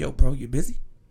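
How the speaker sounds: put-on secretive whisper. Retelling a phone call from Jesse: imitating Jesse's secretive whisper. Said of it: "he talk as if he whispering".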